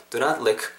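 lick short, final k released; short with audible K. Shown as a demonstration. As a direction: sound the k ending lick. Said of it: "K 사운드까지 살리면서". (lick의 끝 k 소리를 살린 짧은 발음)

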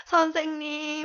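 high, loud call. Pretend. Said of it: "더 크게 불러보세요".

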